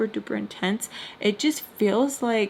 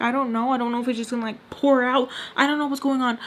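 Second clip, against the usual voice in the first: retold panic, pitched up; a touch of panic, rambling a little higher; freaking out; 4 semitones higher, 3 dB louder, faster than usual. Answering why she is wobbling, retold freak-out. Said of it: "I'm freaking out".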